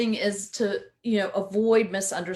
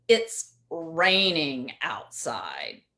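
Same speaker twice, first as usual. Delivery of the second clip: "It's raining outside" drawn out slow and lower, with a sarcastic tone; 4 semitones lower, much slower than usual. Shown as a demonstration. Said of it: "two different meanings there".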